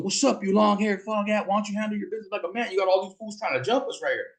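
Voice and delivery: high-pitched mock yell, taunting; retold yelling. Cousin daring Legend to fight one-on-one, high mock yell. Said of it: "My cousin tells him".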